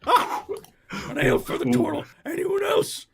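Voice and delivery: high, loud cartoon barmaid; troll barmaid voice. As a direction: take orders like a blunt troll. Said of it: "it's just like".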